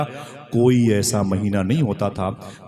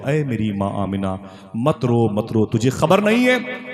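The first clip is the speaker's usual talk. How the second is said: put-on consoling child's voice; 4 semitones higher, 3 dB louder than usual. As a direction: beg her not to cry, building. Unborn child consoles mother.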